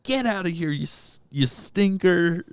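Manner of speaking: high mock white-boy brush-off. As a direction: shoo him away like a bratty white guy. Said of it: "in typical white boy fashion".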